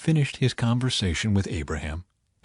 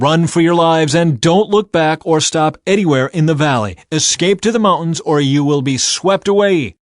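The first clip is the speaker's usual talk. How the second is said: loud, raised command; firm order; 6 semitones higher, 7 dB louder than usual. A narrator's reading. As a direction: drive them toward the mountains. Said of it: "one of the angels ordered".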